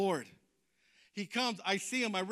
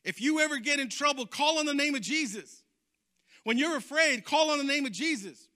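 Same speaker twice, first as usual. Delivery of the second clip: preacher's exhortation, higher pitched; quoting the pastor; 5 semitones higher than usual. Retold or imitated. Youth retells his pastor's advice, quoted exhortation. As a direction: exhort like a pastor recalled from memory. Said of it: "I remember the pastor saying".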